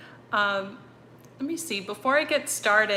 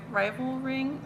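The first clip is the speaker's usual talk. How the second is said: unsure question; 4 semitones higher, 5 dB quieter than usual. Real, not acted. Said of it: "is that right?".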